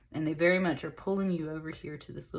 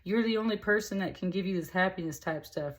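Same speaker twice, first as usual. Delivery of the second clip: insistent card voice; 6 semitones higher than usual. Retold or imitated. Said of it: "It was like".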